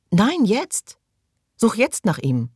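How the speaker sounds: high, loud, urgent cry; desperate demand. Acted. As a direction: insist at once, near breaking. Mary demands an immediate search.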